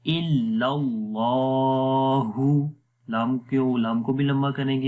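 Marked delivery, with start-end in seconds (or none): 0.1-2.7 इल्लल्लाहु slow, with the Allah lam said heavy; heavy lam recitation. Shown as a demonstration. Teacher models the heavy lam of Allah, slow recitation. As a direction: recite इल्लल्लाहु with a thick lam and a held vowel. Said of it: "तो पढ़ेंगे".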